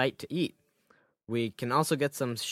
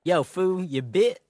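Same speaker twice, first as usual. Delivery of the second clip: yelling; 7 semitones higher, 7 dB louder than usual. Acted. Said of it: "yelled from behind a counter".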